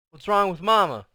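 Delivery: high, loud worried question; a child calling out in alarm. A narrator's reading.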